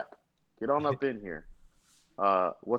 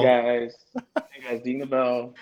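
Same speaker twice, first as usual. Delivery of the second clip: YouTuber voice. Pretend. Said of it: "why you don't use that voice".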